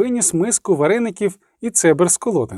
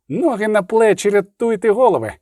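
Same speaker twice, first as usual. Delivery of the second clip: Ноги на плечі called out higher and more urgent; urgent shout; 5 semitones higher than usual. Acted. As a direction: yell at the fleeing riders to run. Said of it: "крикнув Римбаба". (Римбаба кричить товаришам тікати, вищим голосом)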